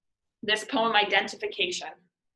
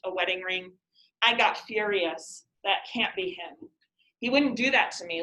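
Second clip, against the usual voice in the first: poem reading. Acted. Reads poem Identification aloud.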